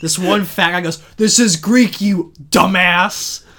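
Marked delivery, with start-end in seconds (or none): 1.2-3.4 high, loud slow angry bellow; angry yell. Acted. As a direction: yell it at the idiot, drawn out. Fat guy yelling in bathhouse.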